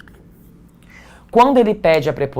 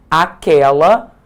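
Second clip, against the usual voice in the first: "aquela" said slowly and louder, rising; stressed demo word; 6 dB louder, slower than usual. Shown as a demonstration. Teacher listing demonstratives, stressing each slowly. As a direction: lean on "aquela", slow and loud. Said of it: "Em português nós temos aquele".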